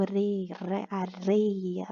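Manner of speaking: areia with a soft tapped R; weak R. Shown as a demonstration. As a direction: quietly sound out "areia" with a light tapped R. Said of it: "que é um R fraco". (R fraco em "areia", sílaba por sílaba)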